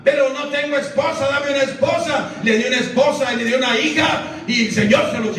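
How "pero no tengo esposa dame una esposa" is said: a missionary's prayer, raised and urgent on the cien vidas; lightly voiced missionary crying out to God; pleading prayer. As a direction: beg God for China with growing force. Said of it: "clamaba y lloraba y le decía".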